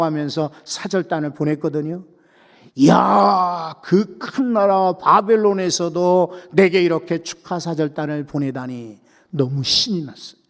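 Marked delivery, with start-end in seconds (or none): 2.7-8.2 delighted cry. Acted. King's delighted exclamation. (감탄하며 길게 외치는 왕)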